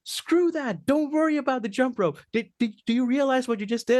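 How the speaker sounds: overjoyed drama teacher exclaiming; thrilled teacher. Retold or imitated. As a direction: burst out with delight at the student. Teacher thrilled at student's breakthrough.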